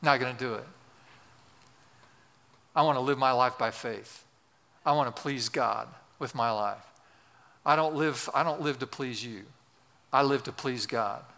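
low, steady resolve; acted low-key firmness. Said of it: "And you say".

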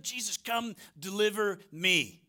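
a slow, pleading prayer; imprisoned John begging for deliverance; slow plea. Retold or imitated. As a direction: beg for rescue from the cell. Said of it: "he's sitting in the prison".

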